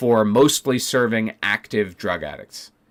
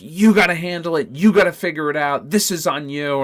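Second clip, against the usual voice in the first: imitated scolding boss; 5 semitones higher, 4 dB louder than usual. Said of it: "she just fucking unloaded on me".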